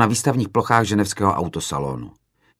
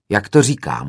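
blunt retort, a touch louder, stress on to; curt hoot; 4 dB louder than usual. Retold or imitated. Director answering the student from the podium, dry retort. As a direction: toss back "Jak to říkám?" dryly from the stage. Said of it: "houkl jsem z pódia".

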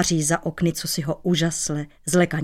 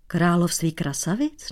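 puzzled question. Acted. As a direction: echo it back, baffled. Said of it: "Nechápal cizinec". (nechápavě "Království krasavic?")

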